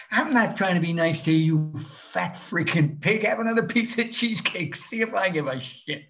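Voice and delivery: snapping back at the heckler; comic telling off a rude heckler, angry; retold angry comeback. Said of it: "I looked at her and says".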